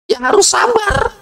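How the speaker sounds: emphatic shout. Acted. Preacher drives home the point.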